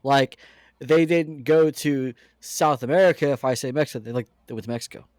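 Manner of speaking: building up to an annoyed rant; exasperated outburst. Real, not acted. Exasperated rant about saying Mexico.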